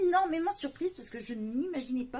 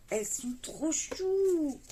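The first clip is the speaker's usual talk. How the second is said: cooing delight; 3 semitones higher, slower than usual. Real, not acted. Gushing over cute little cards.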